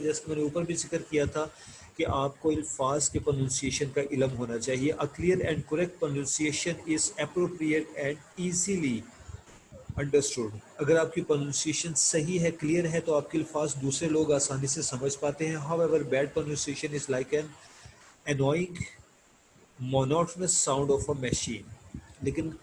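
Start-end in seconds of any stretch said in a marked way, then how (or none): 4.9-10.6 slow, deliberate textbook read-aloud. Acted. Teacher reading English lesson text to students, slow measured reading. 15.6-21.6 slow, deliberate textbook read-aloud. Acted. Teacher reading English lesson text to students, slow measured reading.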